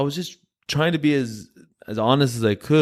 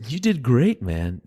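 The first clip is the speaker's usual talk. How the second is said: upbeat praise. Retold or imitated. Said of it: "was that snarky, condescending".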